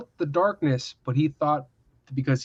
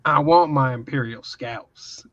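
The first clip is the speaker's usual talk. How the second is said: slow, lightly voiced commander; movie soldier parody; slower than usual. Riffing on Inglourious Bastards in space, mock commander demand. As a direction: draw out the demand, playfully in role. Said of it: "Inglourious Bastards in space".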